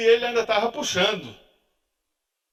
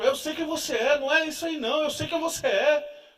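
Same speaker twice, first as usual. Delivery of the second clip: knowing wife; 6 semitones higher than usual. Retold or imitated. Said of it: "Ela sempre diz isso".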